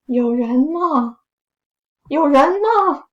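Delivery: calling out, building. Acted. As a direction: call into the empty hall, rising in alarm. Calling out, louder each time.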